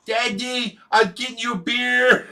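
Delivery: put-on high-pitched toddler voice; small child's voice, pitched well up; little boy. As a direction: imitate a proud small kid calling to Daddy. Voicing little son Josh.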